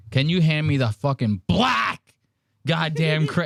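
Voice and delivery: black thrown hard and falling; mocking black stress; heavy stress on black. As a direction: lean into black with force. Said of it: "stop throwing so much emphasis on black".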